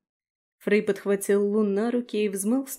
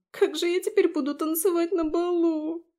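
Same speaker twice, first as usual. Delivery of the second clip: much higher wail; sobbing lament; 9 semitones higher than usual. A narrator's reading. Abi cries to Daphne about dancing, high sobbing wail. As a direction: wail over the ruined ball. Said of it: "Зашлась она рыданием".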